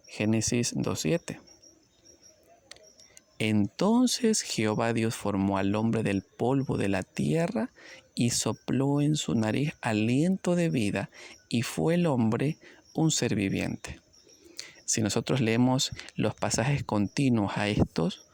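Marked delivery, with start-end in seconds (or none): 3.4-14.0 slow, measured Bible reading; scripture reading. Acted. Preacher slowly reading Genesis to the congregation. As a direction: read the verse slowly and solemnly.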